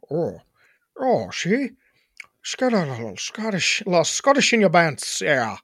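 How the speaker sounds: badly faked Scottish burr; mock Scottish, feeling for the accent. Shown as a demonstration. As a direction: try out a tentative Scottish accent. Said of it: "a Scottish accent".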